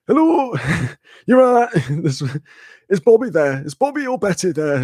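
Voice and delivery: high-pitched, silly put-on northern voice; hammed-up northern accent for a prank call; ridiculous northern accent. Friend prank-calling a hotel room, in a ridiculous northern accent. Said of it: "really fucking ridiculous sort of fucked up northern accents".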